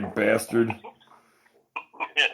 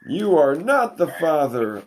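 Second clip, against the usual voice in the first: TV host impression; 5 semitones higher, 3 dB louder than usual. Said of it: "that's Maury Povich".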